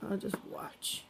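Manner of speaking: soft, slow, half-whispered cat voice; shy pet voice. Retold or imitated. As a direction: voice a timid cat hanging back. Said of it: "He says".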